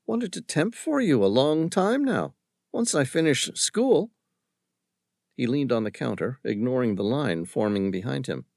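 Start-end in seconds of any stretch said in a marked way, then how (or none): 0.1-4.1 put-on higher, bright girl's voice; lightly voiced young service girl; eager coffee girl. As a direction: sound keen and hopeful.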